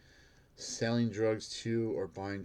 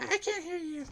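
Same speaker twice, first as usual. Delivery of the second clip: mocking yell. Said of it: "She started yelling".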